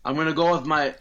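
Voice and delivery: a hint of a wrong accent; botched Irish accent. Picking Sheamus, botched Irish accent. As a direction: start an Irish accent and miss. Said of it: "that's a different accent".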